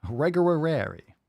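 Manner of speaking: exaggerated Asian accent for laughs; funny Asian voice. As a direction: repeat it in a jokey mock Asian accent. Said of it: "doing the funny Asian voice".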